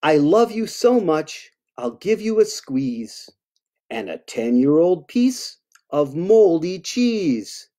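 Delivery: storybook read-aloud; reading to children. Acted. Author reads a monster love poem to kids, storybook voice. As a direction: read it sweetly to little listeners.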